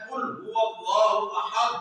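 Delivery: قل هو اللہ احد recited slowly with a full qaf; slow careful recitation; slow Quranic recitation. Shown as a demonstration. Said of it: "اب دیکھیے کیا آپ نے پڑھا".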